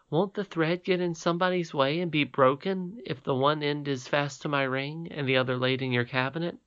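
a hint of a puzzled young princess; Irene's voice.

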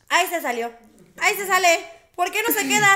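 half-laughing flustered nurse voice; mock nurse. Woman retelling the nurse fumbling her IV, flustered.

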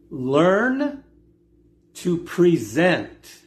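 "learn" rising, then a drawn-out "present" that falls; slow, emphatic "present" after a pause; stress on PRESENT. Shown as a demonstration. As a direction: lean slowly on the word "present". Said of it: "emphasis on the word present".

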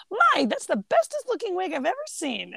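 high-pitched, gushing boy impression; acted-out naive admiration; Clifford. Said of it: "Clifford's like".

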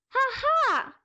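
high, sharp witch's laugh; witch cackle. A narrator's reading. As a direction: cackle like a gleeful old witch.

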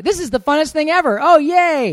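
high, gushing imitation of delight; mock excitement. Wife mimics partner's love of moving, mock excitement. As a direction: squeal it like an over-eager cheerleader. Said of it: "you're like".

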